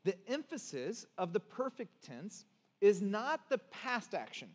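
measured emphasis, pausing to let it sink in; deliberate rereading. Shown as a demonstration. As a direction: read it out again in separated phrases. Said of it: "Let me s-, read it again".

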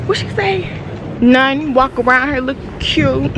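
high teasing impression; imitating Nunu. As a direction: mimic her teasingly. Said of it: "She was like".

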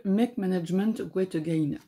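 English title in a clumsy English accent; French speaker attempting English; bad English accent. Real, not acted. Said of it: "j'ai un accent anglais pourri".

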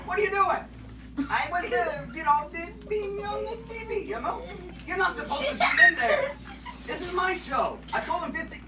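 put-on squeaky kid puppet, playful; chirpy cartoon puppet scolded; high puppet voice. Puppet character scene.

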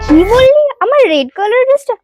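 put-on sorority girl. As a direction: act appalled and superior. Snobby girl refuses dress.

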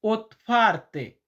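ওতফার্তে said slowly and clearly, syllable by syllable as ot-far-te; teacher modelling ওতফার্তে slowly in Polish; Polish word demo. Shown as a demonstration. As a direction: spell out ওতফার্তে slowly for the learner. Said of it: "এটাকে Polish ভাষাতে বলা হয়".

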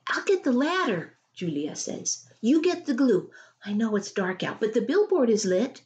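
a hint of a keen daughter planning; eager girl. Narrator voicing Julia.

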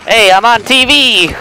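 high, loud, gleeful yell; excited shout. Real, not acted. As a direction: burst out in delight. Spotted by streamer, exclaims.

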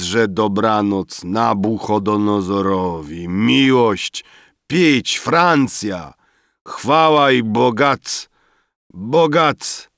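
put-on drunkards drifting off mid-boast; drunken rambling. Drunk friends falling asleep. (pijackie bredzenie, coraz bardziej bełkotliwe)

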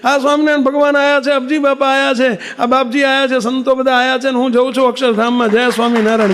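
put-on calling the children over, thrilled at a vision; excited exclamation. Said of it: "હુતાતા ને બોલ્યા". (ઉત્સાહથી ઊંચા સાદે પોકાર)

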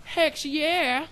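a happy retold cheer at the upload notice; excited cheer. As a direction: whoop it like good news just landed. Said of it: "And I'm like".

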